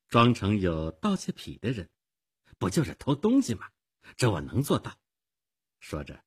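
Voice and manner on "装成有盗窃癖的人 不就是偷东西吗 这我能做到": breezy, untroubled acceptance; easygoing, casual confidence; relaxed. Acted. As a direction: make light of the task. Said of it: "艾尔莎轻松地说".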